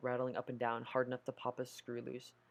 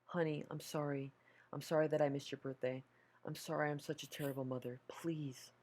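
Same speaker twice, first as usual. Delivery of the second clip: mother's tearful plea; 2 semitones higher than usual. Acted. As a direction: beg forgiveness, voice breaking. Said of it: "Her voice broke, and she started to cry".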